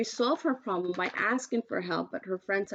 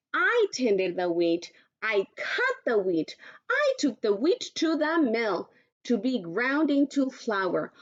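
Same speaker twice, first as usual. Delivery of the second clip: proud hen; 2 semitones higher than usual. Acted. Little red hen telling lazy friends she'll eat alone, slow and proud. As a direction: make them regret not helping.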